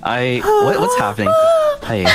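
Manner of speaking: high squeaky laughing words. Real, not acted. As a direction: laugh through the question. Laughing, can't stop.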